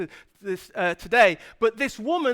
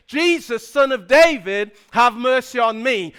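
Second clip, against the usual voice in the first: raised voice; 5 dB louder than usual. Retold or imitated. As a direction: plead loudly over the crowd. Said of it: "he raises his voice and says".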